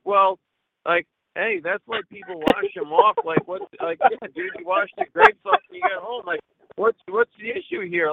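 hammed-up indignation at the grape guy; mock indignant. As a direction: act out a heated, mock-outraged comeback. Retelling his heated reply.

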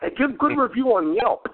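delivery man pushing the soup on a customer, light mock voice; imitating delivery guy. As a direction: insist politely at the door. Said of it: "he goes".

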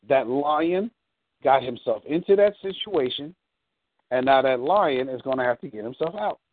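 measured, broken into clear phrases. Acted. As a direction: spell the punchline out slowly, pausing between phrases. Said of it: "Let me say it slower this time".

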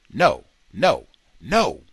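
loud, high shout of no. A narrator's reading. Convict shouting from his cell at the attackers, loud. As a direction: bark it out to stop them cold. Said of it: "he heard a shout".

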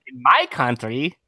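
put-on slow, tentative Russian accent; attempted Russian accent. Host tries out a Russian voice, slow put-on Russian accent. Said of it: "I've never done a Russian accent".

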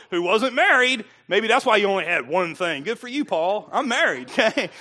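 laughing. Real, not acted. Preacher joking about marriage, laughing.

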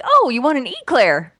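imitating co-host. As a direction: tease him with a laughing EE-clair. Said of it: "he'll be like".

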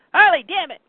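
retold exasperated shout; Bruce. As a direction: yell to wake someone up. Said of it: "Bruce is yelling at Harley".

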